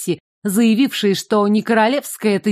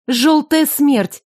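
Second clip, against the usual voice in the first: alarmed; 5 semitones higher, much slower than usual. Acted. Heroine recognizes deadly plague.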